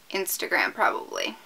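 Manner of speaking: under the breath. Real, not acted. Repeats answer under breath.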